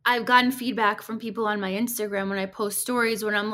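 ordinary talk

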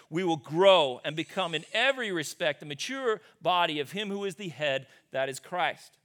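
measured Bible reading voice, slowing at the end; scripture reading. Acted. Pastor reading Ephesians to the congregation, measured reading. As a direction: read the passage with weight.

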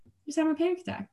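lightly voiced reassuring coach; so calm. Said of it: "So, so calm".

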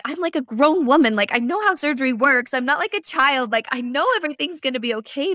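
talking herself out of fear, protesting; indignant self-talk. Retold or imitated. Scared patient telling herself she's grown, mock protest. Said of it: "And I'm like".

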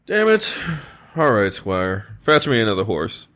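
concerned king, gently urging rest; King Arthur voice. Acted.

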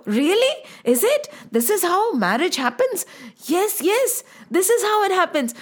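put-on a wide-eyed child asking her friend; lightly voiced curious young girl; excited girl. Young Meera asks excitedly.

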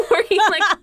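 laughing through the words; giggling while describing the doors; real laughter breaking in. Real, not acted.

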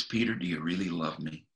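hushed tender question from Jesus; gentle question. Retold or imitated. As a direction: ask quietly, as a gentle friend.

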